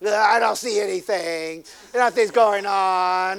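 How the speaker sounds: slow, drawn-out mock scoff; a skeptic sneering at the healing; scoffing atheist. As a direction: play the doubter in the back, unimpressed.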